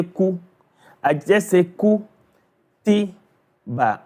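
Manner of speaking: ku, ti, ba each cut short, not prolonged; crisp separate ku, ti, ba; short syllables. Shown as a demonstration. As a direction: say ku, ti, ba without dragging the vowels. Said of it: "I do not drag or prolong it".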